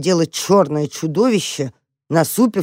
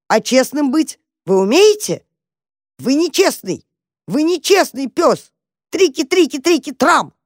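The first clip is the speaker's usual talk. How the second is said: indignant shouting; 9 semitones higher than usual. A narrator's reading. Mouse Tam shouting accusations at the dog. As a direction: keep shouting, furious and fearless.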